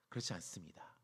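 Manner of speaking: breathy hushed whisper; whispered aside. Real, not acted. Preacher quietly contradicting the son's claim, whispering. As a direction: let it drop to a whisper.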